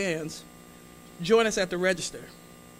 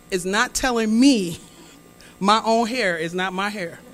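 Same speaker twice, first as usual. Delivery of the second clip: indignant; 5 dB louder than usual. Retold or imitated. Inner outrage.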